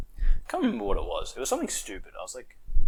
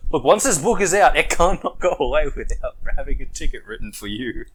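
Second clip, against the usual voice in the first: pompous cop; 6 semitones higher, 5 dB louder than usual. Retold or imitated.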